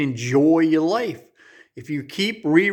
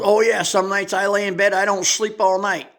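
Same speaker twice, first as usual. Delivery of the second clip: a hint of a higher, louder old woman voice; old lady admitting; 6 semitones higher, 3 dB louder than usual. Old lady answering the narrator about lost sleep, lightly voiced. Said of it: "She goes".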